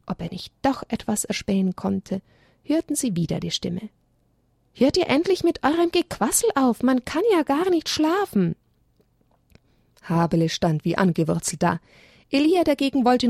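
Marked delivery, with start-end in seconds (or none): 4.7-8.5 high, cross voice woken from sleep; lightly voiced grumpy sleeper; a hint of an annoyed hidden creature. A narrator's reading. Grumpy voice from tree.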